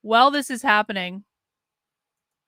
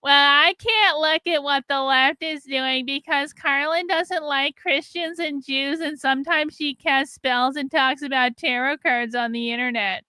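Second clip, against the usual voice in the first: mocking critics; 3 semitones higher, slower than usual. Mimics critics' excuses to them.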